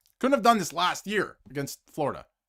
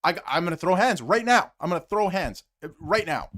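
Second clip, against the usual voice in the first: imitated angry thought; 3 semitones higher, 5 dB louder than usual. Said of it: "The only thing he thought was".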